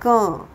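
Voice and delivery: क said as कं, through the nose; nasalised क showing the anusvara; nasal ka. Shown as a demonstration. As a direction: let the क ring in the nose. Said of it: "नाक से निकलेगा क".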